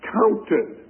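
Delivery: "counted" slow and set apart; stress on counted. Shown as a demonstration. Preacher showing Romans' emphasis, stressing "counted". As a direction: lean deliberately on "counted". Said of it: "the emphasis is on faith and the word counted".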